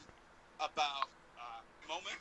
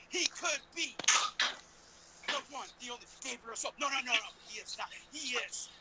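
ringmaster; 4 semitones higher than usual. Pretend. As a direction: ring announcer introduction. Hyping second guest introduction.

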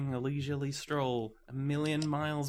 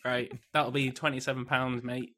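impatient barista voice. Acted. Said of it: "I'll be that guy".

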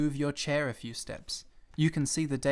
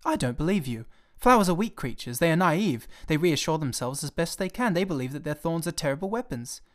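resentful; 4 semitones higher than usual. Acted. Little prince flashing back at the pilot, resentful and indignant. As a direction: snap back in hurt defiance. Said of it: "flashed back at me with a kind of resentfulness".

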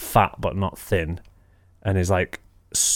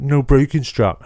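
smug mimic; 5 semitones higher, slower than usual. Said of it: "and so went".

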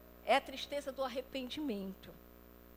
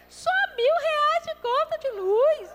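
laughing; 13 semitones higher, 9 dB louder than usual. Real, not acted. Mock complaint about bill.

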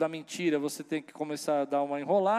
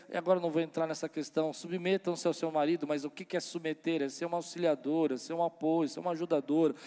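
ordinary talk, nothing marked

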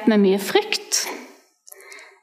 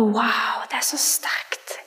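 hushed, slow, much softer whisper; awed whisper; 5 dB quieter, much slower than usual. Retold or imitated. Overwhelmed teen whispering her awe at the Spirit. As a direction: barely breathe it out in wonder.

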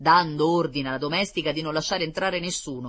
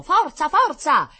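high, loud, drawn-out cheer; cheering shout; 11 dB louder, slower than usual. A narrator's reading. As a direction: urge him on like a crowd. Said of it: "passeggeri e turisti gridavano".

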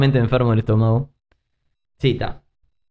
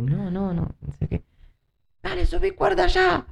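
retold crying; 3 dB quieter than usual. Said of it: "Y yo llorando".

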